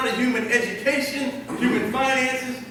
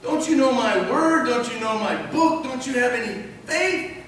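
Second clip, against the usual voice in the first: questioning Jesus; 4 semitones higher than usual. Acted. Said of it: "so he said".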